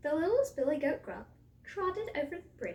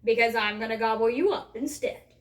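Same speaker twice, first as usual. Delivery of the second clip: loud hungry troll threat; troll's roar; 10 dB louder than usual. A narrator's reading. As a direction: roar that threat with full volume. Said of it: "roared the troll".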